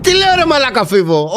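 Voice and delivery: high, incredulous outburst; indignant. Real, not acted. Streamer answering a claim about the football show, indignant. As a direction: protest in disbelief, starting high.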